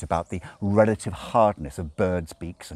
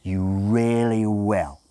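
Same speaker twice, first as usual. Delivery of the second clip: slow, unyielding insistence; relentless demon driving it home; 4 semitones higher, 5 dB louder, much slower than usual. A narrator's reading. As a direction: keep pressing slowly. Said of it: "Crowley said relentlessly".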